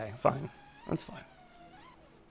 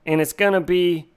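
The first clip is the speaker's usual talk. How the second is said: mock Italian-American TV baker accent, pitched up; Cake Boss; 4 semitones higher, 4 dB louder than usual. Imitating a TV baker announcing a deli cake, fake Italian accent. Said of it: "He talked with a really fake accent".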